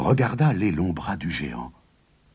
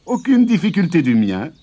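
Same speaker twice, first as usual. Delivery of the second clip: high, louder farmer voice; smug farmer; 12 semitones higher, 6 dB louder than usual. Acted. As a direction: brag lightly as the farmer. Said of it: "dit Jude".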